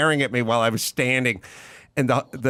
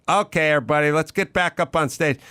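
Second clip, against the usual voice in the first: Cynthia Seghetti; 5 semitones higher, faster than usual. Retold or imitated. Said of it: "Cynthia was like".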